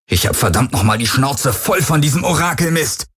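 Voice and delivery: angry outburst; fed-up yell; roaring at the Helix. A narrator's reading. Garland yelling at the Helix, fed up and furious. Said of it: "brüllte er die Helix an".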